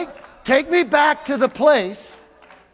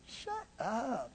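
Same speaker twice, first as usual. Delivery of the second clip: joking Jesus; 2 semitones lower, 21 dB quieter than usual. Retold or imitated. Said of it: "Jesus is like".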